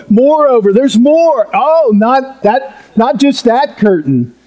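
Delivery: preacher doing a mock game show host unveiling a prize. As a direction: play the host teasing the next curtain. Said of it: "it's almost like a game show".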